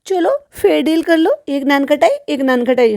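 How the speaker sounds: high, put-on bargaining voice; high-pitched mock haggling; mimicking a child. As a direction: imitate a kid striking a deal with the teacher. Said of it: "ये अपनी madam से भी ये कहेगा".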